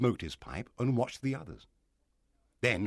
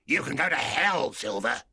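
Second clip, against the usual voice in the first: angry defiance; 4 semitones higher, 5 dB louder than usual. A narrator's reading. Pirate defies his captain.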